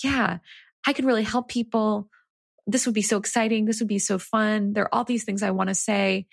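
lightly excited, a touch lifted in pitch; retold excitement. Author recalling excitement about her new book idea, mildly excited. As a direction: relive the thrill with mild enthusiasm. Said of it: "I get so excited".

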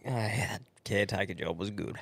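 laughing quote. Retold or imitated. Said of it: "It's like".

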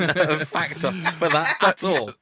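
laughing through the words, slowed down. Real, not acted. Co-host laughing at own guess about prison terms. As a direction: giggle the admission out slowly.

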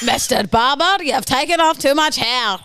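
drifting into Scottish; Scottish accent. Acted. The German attempt lands as Scottish.

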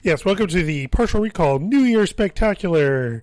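upbeat announcer welcome; podcast host intro. Acted. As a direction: open the show like a host. Restarts the show intro.

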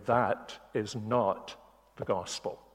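slow, deliberate stress on not; firm preacher's denial of the gospel claim; emphatic. Real, not acted. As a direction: lean hard on not in "that is not the gospel". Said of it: "I want to say very emphatically".

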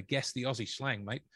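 lightly put-on Australian accent; amateur Aussie twang; terrible Aussie accent. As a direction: badly fake an Australian accent. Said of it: "that was a terrible Aussie accent".

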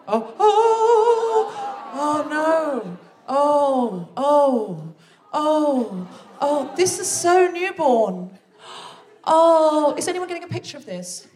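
high cooing over a newborn; gushing over baby. Retold or imitated. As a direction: melt over the baby, drawn out. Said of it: "people would be like".

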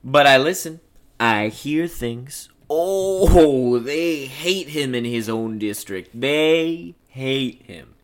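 slow, drawn-out gossip with sour relish; drawling know-it-all; Floyd, boastful talker. Acted. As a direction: play a self-important local cop. Plays Floyd in script reading.

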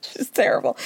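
unvoiced whisper, confiding; a hushed gossip aside. Real, not acted. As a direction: lean in and whisper it. Aside about Mary.

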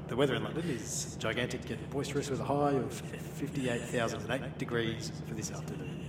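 a light airline captain announcement; pilot voice. Pretend. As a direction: lightly play the captain on the intercom. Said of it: "Your best pilot voice".

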